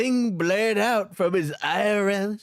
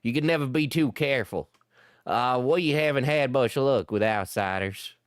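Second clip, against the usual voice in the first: lower Shallot voice; 5 semitones lower than usual. Acted. Shallot apologizes in character.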